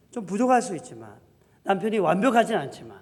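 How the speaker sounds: ordinary talk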